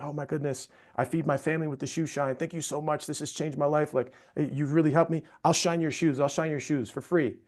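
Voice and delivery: a hint of an overwhelmed, tearful street vendor; thanking a stranger for returning his brush, mildly tearful; grateful vendor. Vendor quoted almost in tears.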